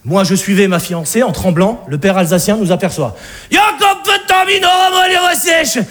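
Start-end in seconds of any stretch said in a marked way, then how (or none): 3.5-5.8 Alsatian father. Acted. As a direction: boom like a jolly Alsatian dad. (père alsacien joué, aigu et fort)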